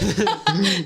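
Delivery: short, loud burst of laughter; hearty laugh. Real, not acted. Amused at refusing the warrior label, laughing. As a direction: crack up briefly. Laughs at her own joke.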